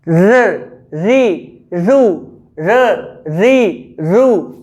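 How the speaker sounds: र, री, रू twice over, a clear tapped र; slow separate र री रू with a firm tap; r syllable drill. Shown as a demonstration. Teacher repeats र री रू with fingers holding the mouth open. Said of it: "दो finger यहाँ पे लगा सकते हैं".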